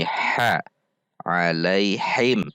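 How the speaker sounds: "ha" and "Alaihim" with a tight, forced h; pressed h. Shown as a demonstration. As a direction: squeeze the h in "Alaihim". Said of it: "Tidak dibaca dengan ditekan suaranya". ("Alaihim" dengan ha ditekan)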